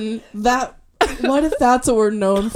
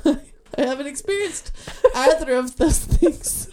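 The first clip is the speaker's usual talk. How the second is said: laughing; 3 semitones higher, slower than usual. Real, not acted. Laughs through words.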